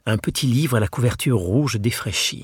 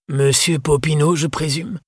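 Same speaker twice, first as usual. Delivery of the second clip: vieux libraire anglais; 7 semitones higher than usual. Acted.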